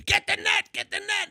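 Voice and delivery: high, loud, frantic imitation; panicked angler's holler, re-enacted; retold scream. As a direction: yell for help landing the fish. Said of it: "And he's screaming again".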